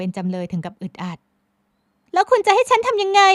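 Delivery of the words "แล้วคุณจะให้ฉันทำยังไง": high, loud, slow; exasperated young woman. A narrator's reading. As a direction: throw up her hands. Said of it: "พลอยไหมโมโหมากแล้ว".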